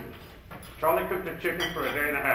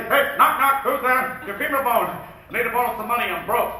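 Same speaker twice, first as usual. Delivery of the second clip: Patch Adams impression; 3 semitones higher than usual. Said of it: "like Pat Adams would say".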